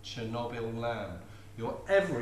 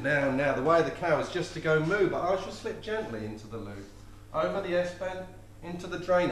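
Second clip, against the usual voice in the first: granny voice; 4 semitones higher, 4 dB louder than usual. Acted. Granny answers grandson in poem.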